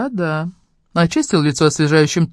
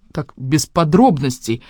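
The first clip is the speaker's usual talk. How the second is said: pleading; slower than usual. Acted. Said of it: "взмолилась я".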